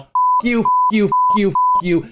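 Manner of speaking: very high squealed f*** you; comic squeal of rage; shrieked curse. Real, not acted. Escalating rant at the man.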